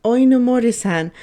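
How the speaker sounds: calling her boss out loud; loud, falling call of the name. Acted.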